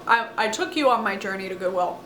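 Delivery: talking through a mouthful; words round something in the mouth; mouth full. Real, not acted. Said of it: "Sorry, I had something in my mouth".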